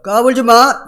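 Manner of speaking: mock dismissive warning, punched out; scornful warning. Preacher voices God laughing at the wicked, scornful warning. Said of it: "하나님 비웃으신대요".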